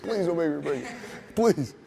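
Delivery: retold plea rising on the last please; pleading. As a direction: imitate a desperate plea to the ref. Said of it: "I just remember him pleading".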